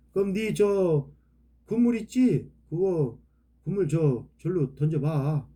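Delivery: put-on casual Chungcheong accent; lightly put-on rural Chungcheong speech; Chungcheong dialect. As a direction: give the instruction like a Chungcheong local. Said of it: "제 충청도 말로 한번 해".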